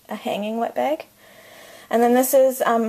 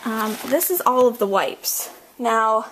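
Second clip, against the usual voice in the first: breathless, panting between words; out of breath. Real, not acted. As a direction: talk while catching your breath. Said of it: "sorry, I'm out of breath".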